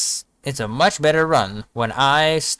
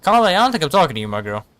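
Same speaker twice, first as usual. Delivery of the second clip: loud teasing; 3 semitones higher, 5 dB louder, much faster than usual. Real, not acted. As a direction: tease her quickly and loudly. Teasing chat reader.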